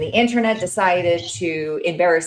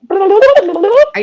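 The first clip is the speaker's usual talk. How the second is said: much louder, slow, higher; loud, slow repeat; 13 semitones higher, 12 dB louder than usual. Real, not acted. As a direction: call it out slowly over the bad line. Repeats louder for bad connection.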